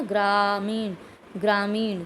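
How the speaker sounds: ग्रामीण with a half ग and a full र; demo pronunciation. Shown as a demonstration. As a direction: say ग्रामीण so the र sounds complete. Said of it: "तो देखो र पूरा सुनाई दे रहा है". (ग्रामीण में आधा ग, पूरा र)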